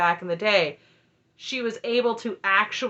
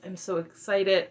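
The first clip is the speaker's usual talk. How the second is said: slower, plain-level repeat of "excited"; slower restatement. Retold or imitated. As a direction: pull back and say "excited" deliberately, slowly. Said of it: "So Aspen's like".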